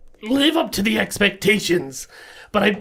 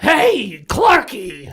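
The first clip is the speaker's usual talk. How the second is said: yell; 3 semitones higher, 4 dB louder, much slower than usual. Acted. Player yelling Clarky across the bar. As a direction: yell to make him turn. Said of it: "so you yell".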